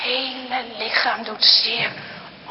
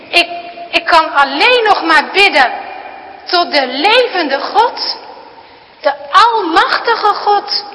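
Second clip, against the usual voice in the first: put-on girl pleading; 4 semitones higher, 7 dB louder than usual. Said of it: "en ze zegt".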